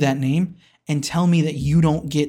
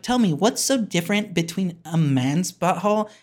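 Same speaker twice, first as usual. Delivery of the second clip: lightly voiced mock wife; horrible wife impersonation; 2 semitones higher than usual. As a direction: do a half-hearted imitation of your wife challenging you. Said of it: "that's a horrible impersonation of my wife".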